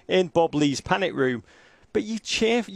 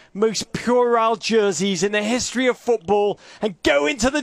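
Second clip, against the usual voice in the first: mild oratory building, then dropping at the end; rally them, then deflate on the last words; mock team talk; 3 semitones higher than usual. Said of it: "Here's what I'd say if I were Jurgen".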